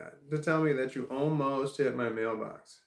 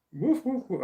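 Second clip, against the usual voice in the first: much higher, louder woofing imitation; mock the neighbor aping a dog; 10 semitones higher, 6 dB louder than usual. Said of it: "the guy said".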